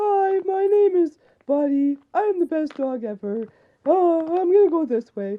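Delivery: silly, high, slow dog voice. Showing the voice they give dogs at work, speak as a dog: voice for the dogs. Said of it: "this is the voice the dogs get".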